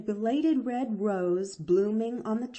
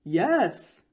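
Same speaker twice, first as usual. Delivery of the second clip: grave smile; 5 dB louder than usual. A narrator's reading. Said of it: "smiled the doctor a little gravely".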